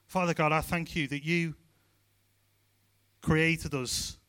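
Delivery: measured prayer with long pauses; closing prayer. Real, not acted. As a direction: pray sincerely, phrase by phrase.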